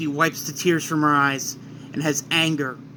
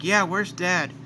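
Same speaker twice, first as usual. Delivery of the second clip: "Yeah, where's Dad?" only slightly raised; lightly voiced Gohan; 3 semitones higher, slower than usual. Gohan asking about his father, lightly voiced. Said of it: "Gohan's like".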